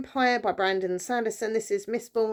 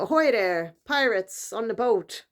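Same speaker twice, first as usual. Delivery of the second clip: hammed-up pirate accent, a bit louder and slower; mock pirate accent; 2 semitones higher, 3 dB louder, slower than usual. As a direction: play a cartoon pirate calling out. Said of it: "I don't know what accent that was".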